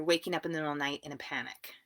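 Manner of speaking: said really fast in one breath; rushed. Real, not acted. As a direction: rattle it off without pausing. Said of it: "I said that really fast".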